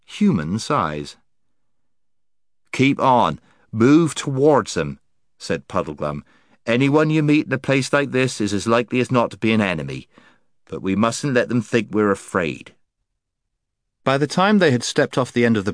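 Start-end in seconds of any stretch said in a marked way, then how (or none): 2.7-5.0 gloomy Marsh-wiggle voice. Acted. Puddleglum voiced by narrator. 6.7-12.8 wary, quick gloomy Marsh-wiggle. Acted. Puddleglum voiced by narrator.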